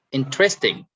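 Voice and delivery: "interesting" with the stress on IN; stress on first syllable. Shown as a demonstration. Teacher showing students word stress, first-syllable stress on "interesting". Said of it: "you stress on in".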